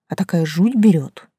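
ordinary delivery, nothing marked

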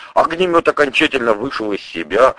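usual speaking voice

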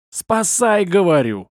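high yell dropping on the last word; exasperated, high-pitched cry for help. A narrator's reading. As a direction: holler it impatiently. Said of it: "заорал я".

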